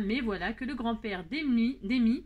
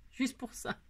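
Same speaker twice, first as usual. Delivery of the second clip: laughing whisper; 2 semitones higher, 5 dB quieter than usual. Real, not acted. Laughs at own purchase.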